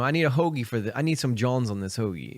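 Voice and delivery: lightly put-on Philly accent; a hint of mock Philly. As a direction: toss out Philly slang like a local. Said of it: "That's, like, Philly, uh, speak for you".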